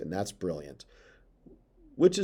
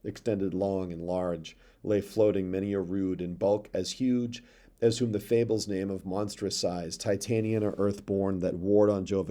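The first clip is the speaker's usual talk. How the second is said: poem reading. Acted. Teacher reading Milton's verse to students, measured. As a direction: read the verse aloud to the class.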